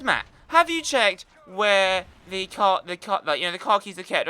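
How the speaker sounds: mock-patient mother asking again; imitating mum. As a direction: drag it out like a nagging mum.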